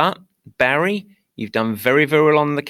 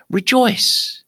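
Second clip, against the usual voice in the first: mock proclamation; 11 semitones higher, 3 dB louder than usual. Mock proclamation to American listeners.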